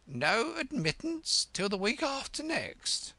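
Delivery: high, squawky doorkeeper; beaked creature. Acted. Creature sends Alice away, high squawk. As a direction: squawk it through the door.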